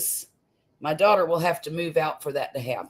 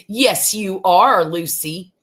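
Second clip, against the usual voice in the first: cooing to a pet; 6 dB louder, slower than usual. Real, not acted. Host breaks off to coo at Lucy, slow and doting. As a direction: dote on Lucy with a sing-song coo. Fondly coos to Lucy mid-sentence.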